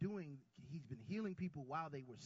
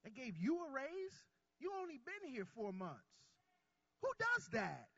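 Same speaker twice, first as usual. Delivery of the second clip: much higher, louder astonished questions; mock amazement; 12 semitones higher, 6 dB louder than usual. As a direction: marvel at the surprise raise. Preacher acts surprised colleague.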